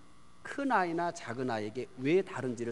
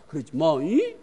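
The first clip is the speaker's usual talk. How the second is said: half-hearted scolding; 9 dB louder than usual. Retold or imitated. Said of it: "야단치다 말고 뭐 해요? 웃어버리고".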